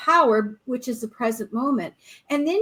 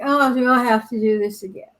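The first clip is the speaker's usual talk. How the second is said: mock whiny reluctance; 4 dB louder than usual. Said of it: "compared to, like".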